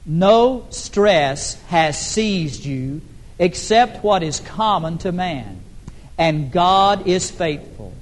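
slow, measured group-reading pace; deliberate recitation with drawn-out phrases; reading aloud together. Real, not acted. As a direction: lead the congregation through the verse word by word. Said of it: "Would you read it out loud with me".

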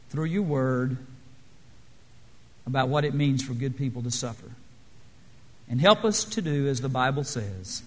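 subdued, measured praying voice with pauses; mildly hushed, reverent address to God; closing prayer. Real, not acted. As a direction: lead a quiet prayer, phrase by phrase.

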